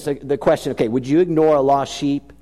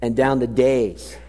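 poem recital; 3 semitones lower than usual. Shown as a demonstration. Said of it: "it's what he says".

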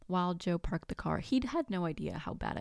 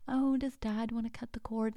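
cheery nurse; 5 semitones higher than usual. Retold or imitated. Nurses' excited question, voiced.

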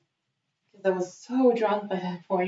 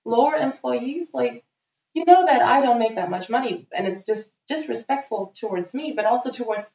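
indignant disbelief building to a high, loud outburst; outraged; 4 semitones higher, 4 dB louder than usual. Retold or imitated. Woman retelling how she exploded at her date, outraged. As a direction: replay the furious confrontation, voice climbing higher and louder. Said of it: "I was so mad at him".

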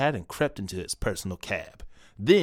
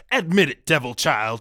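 demanding shout; 4 semitones higher, 5 dB louder than usual. Acted. Detective presses the suspect.

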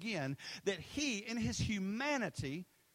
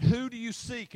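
commanding question; 5 semitones higher, 8 dB louder than usual. Retold or imitated. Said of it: "he said".

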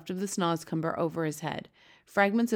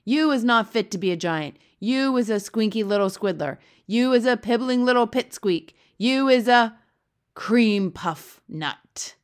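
loud name-calling, building higher, slowing for the last insult; blood bottler, angry giant; 4 semitones higher, 9 dB louder than usual. A narrator's reading. Blood bottler berates the B F G, furiously loud. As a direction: hurl each insult at full volume.

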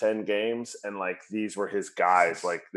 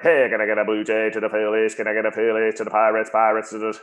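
auctioneer; faster than usual. Pretend. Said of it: "if I did it like a, like an auctioneer".

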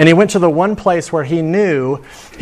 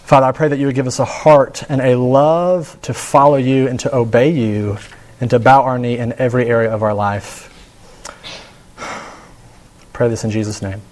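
hushed prayer fading to amen; closing prayer. Acted. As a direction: pray over the congregation gently.

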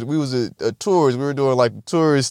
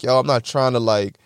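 mock sincere; 6 semitones lower than usual. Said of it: "I tried to be sincere".

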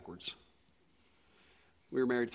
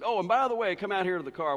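louder, higher acted summons; retold eager afterthought; 6 semitones higher, 6 dB louder than usual. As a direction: imitate someone suddenly remembering, calling him out. Man retold adding sudden afterthought.

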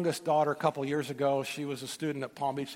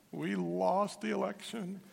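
imitating a rattled woman; 4 semitones higher, 5 dB quieter, slower than usual. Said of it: "strong believer, rattled".

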